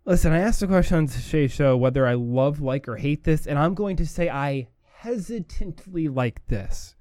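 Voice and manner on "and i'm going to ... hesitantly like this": slow, weighty stress on hesitantly; emphasis on hesitantly. Shown as a demonstration. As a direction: lean slowly on the word hesitantly, hanging on it. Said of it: "with the emphasis on the hesitantly".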